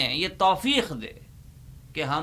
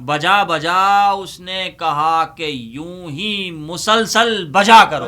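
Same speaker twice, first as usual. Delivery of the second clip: slow, loud closing punchline; poem recitation; 3 semitones higher, 9 dB louder, slower than usual. Acted. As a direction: stretch out the last line for the laugh.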